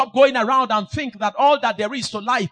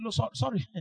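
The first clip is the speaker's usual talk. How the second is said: meek, tiny voice; timid little voice; 9 dB quieter than usual. Retold or imitated. Pastor answering God in a timid voice. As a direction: shrink away from the task. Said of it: "what kind of voice is that?".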